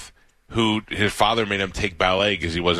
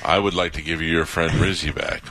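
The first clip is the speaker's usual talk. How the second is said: God voice; 6 semitones lower than usual. Pretend. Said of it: "if God was like".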